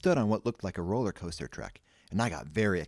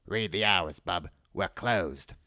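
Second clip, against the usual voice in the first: fake loudspeaker voice; slower than usual. A narrator's reading. Bank speaker turning away visitors, fake voice. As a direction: give a curt put-on announcement. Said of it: "a fake voice came over the loudspeakers".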